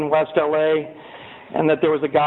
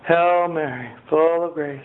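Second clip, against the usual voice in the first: rote prayer. Retold or imitated. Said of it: "a good Catholic prayer".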